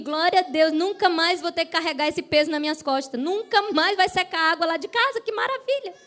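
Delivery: acted-out jubilant relief; woman rejoicing. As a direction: celebrate as the relieved woman, pitch rising. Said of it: "A mulher deve ter pensado assim".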